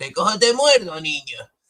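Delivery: high cartoon baddie voice. Voicing the Hordak figure threatening a child: Hordak voice. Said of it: "como diciendo".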